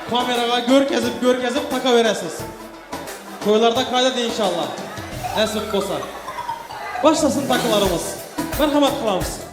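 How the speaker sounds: booming wedding announcer. Acted. MC loudly calling out to guests.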